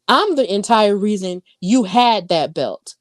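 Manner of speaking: had leaned on, the line otherwise even; stress on had. Retold or imitated. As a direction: put the weight on had. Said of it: "Emphasis on had".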